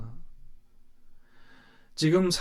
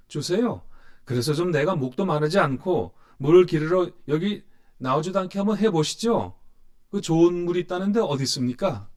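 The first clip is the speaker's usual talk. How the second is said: curt dismissal; 3 semitones higher, 3 dB louder than usual. Acted. Preacher voicing the woman cutting Jesus off, sarcastic and raised. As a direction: brush him off with sarcastic impatience. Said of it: "대화를 딱 잘라버리죠".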